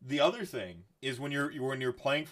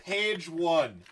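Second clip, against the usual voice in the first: laughing; 7 semitones higher, 5 dB louder, much slower than usual. Real, not acted.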